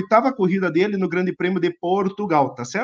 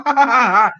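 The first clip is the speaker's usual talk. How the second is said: over-the-top excited; 4 semitones higher than usual. Real, not acted.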